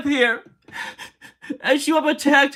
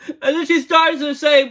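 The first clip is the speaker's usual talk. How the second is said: real crying. Real, not acted. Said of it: "Me crying right now".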